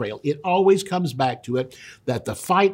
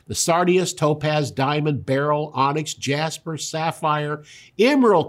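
solemn raised scripture read. Acted. Preacher reading Ezekiel to the congregation, solemn. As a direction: proclaim the verses like God speaking.

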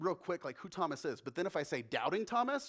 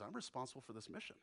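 fearful Thomas; 4 semitones lower, 13 dB quieter, faster than usual. Acted. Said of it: "also says".

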